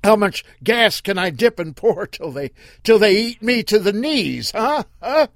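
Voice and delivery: loud, high mocking taunt. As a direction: needle them with every question. Earl taunting the car aloud.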